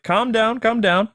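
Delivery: high-pitched, hurried "whoa, whoa" of a startled gangster; Penguin stopping Batman. Retold or imitated. Penguin halts Batman when they first meet, high startled gangster voice. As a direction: play the Penguin backing off fast from the Batman. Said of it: "He's like".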